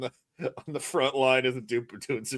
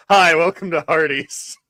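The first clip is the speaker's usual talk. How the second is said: lightly voiced drive-thru greeting; just read the stock greeting; a hint of a canned store voice; flat fast-food greeting; 4 semitones higher, 8 dB louder than usual. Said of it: "all the voice says is".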